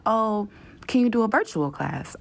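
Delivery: high, breezy request; mock assistant. Mimicking the assistant's breezy, high request. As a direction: ask it like it's no big deal. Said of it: "she like".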